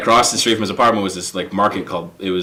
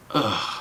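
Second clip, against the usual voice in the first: soft exasperated "ugh"; quiet groan at a bad pun; retold groan of a tired boss; weary groan; 8 dB quieter than usual. Boss reacts wearily to the pun.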